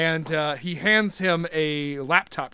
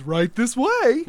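slow, higher creaky scarecrow; 6 semitones higher, 4 dB louder, slower than usual. Acted. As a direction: lead them in, slow and sly. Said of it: "he says".

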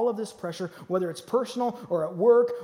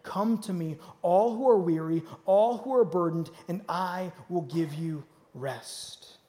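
gentle invitation; 3 semitones lower, slower than usual. Retold or imitated. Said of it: "Jesus says it in Scripture".

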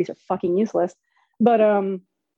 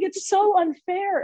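put-on high, slow childish complaint; imitated tearful whine; mock whining; 10 semitones higher, slower than usual. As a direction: draw it out like a sulky kid.

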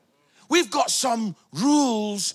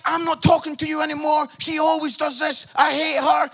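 mock family spat; 5 semitones higher than usual. Acted family fight quote.

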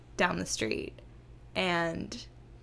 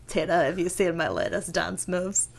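lightly imitated cartoon character; Jimmy Junior; 3 semitones lower than usual. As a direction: show off in a hint of cartoon voice. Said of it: "No, that's Jimmy Junior".

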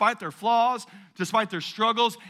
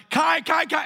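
retold urgent call; 8 semitones higher, 4 dB louder than usual. Calling son into closing elevator.

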